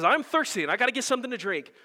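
a hint of a thirsty, desperate girl; anxious little girl. Preacher voicing Jill at the river, mildly anxious.

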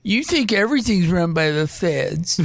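laughing while teasing. Real, not acted. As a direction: tease him through a laugh.

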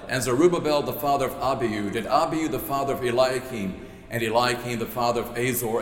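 steady, measured Bible reading; scripture reading. Acted. Pastor reading the gospel passage to the congregation, measured reading. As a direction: read the list of names as scripture. Reads the genealogy aloud.

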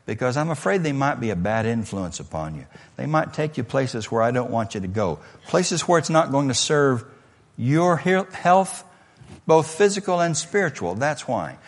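quiet, calm, patient dad; calm father. Retold or imitated. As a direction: explain it gently as a reasonable father. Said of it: "And Dad calmly says".

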